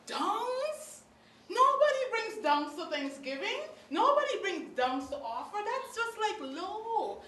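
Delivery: offended by the dungs offering; indignant disbelief. Real, not acted. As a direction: scoff at the lowly fruit.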